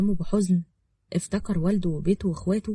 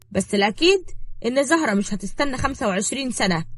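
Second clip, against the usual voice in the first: raised, lightly voiced schemer; scheming woman; 5 semitones higher, 3 dB louder than usual. Woman telling girl her husband fled, lightly voiced schemer. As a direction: needle her with the news.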